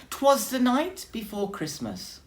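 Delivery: lifted, declaiming bear voice; grand pronouncement. A narrator's reading. Bear begins his poem with grand declaiming voice. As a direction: announce it like a proud reciter. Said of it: "Bear pronounced".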